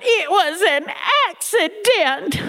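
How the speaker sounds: put-on high, slow, tearful old lady; mock whimpering. Grandmother pleading to the family, high slow mock whimper. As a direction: whimper it out like a caught child. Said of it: "Granny cried".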